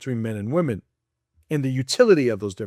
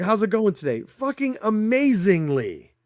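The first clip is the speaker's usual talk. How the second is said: a higher, hammed-up chipper exchange; mock cheery chat; 5 semitones higher than usual. Mocking a cheerful small-talk exchange, lightly higher. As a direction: lightly play both chirpy guys. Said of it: "It's like".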